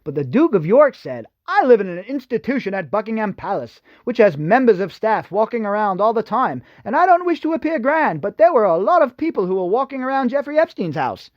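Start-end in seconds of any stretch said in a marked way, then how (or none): 1.5-11.3 put-on posh British accent, pitched higher; Prince Andrew British accent. Vlogger reading the Duke of York's quote to viewers, mock British accent. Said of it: "Sorry, I had to do the accent".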